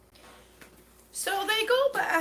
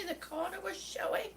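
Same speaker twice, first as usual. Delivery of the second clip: whispering; 9 dB quieter than usual. Retold or imitated. Hiding the wrong tile, whispering.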